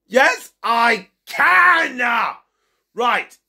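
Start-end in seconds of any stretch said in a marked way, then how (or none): 0.1-2.0 slow, drawn-out defiant yell; defiant shout. Acted. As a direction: stretch each word out in defiance. Squabble, can't/can.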